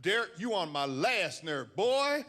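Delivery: Southern mother scolding. Retold or imitated. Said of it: "She's from the South, so she's that phrase".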